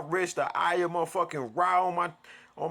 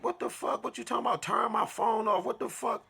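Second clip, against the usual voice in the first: high, airy disbelieving what the fuck; shocked disbelief; 6 semitones higher than usual. Retold or imitated. Reacting to being told to unplug everything, high disbelief. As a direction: gasp it out, baffled. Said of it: "I'm like".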